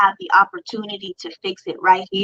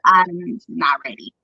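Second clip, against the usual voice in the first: mild retold crying; 3 semitones lower than usual. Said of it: "bawling my eyes out".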